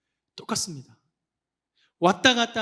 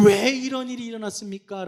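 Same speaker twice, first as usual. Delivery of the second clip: lightly acted protest, a little high; confronting God; 5 semitones higher, 3 dB louder than usual. Israelites questioning God, mild mock protest. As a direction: put it as a pointed complaint. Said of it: "라면서 하나님께 따져 묻습니다".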